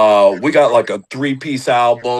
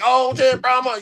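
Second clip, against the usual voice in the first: imagined fan's surprise; 12 semitones higher than usual. Pretend. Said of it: "to be like".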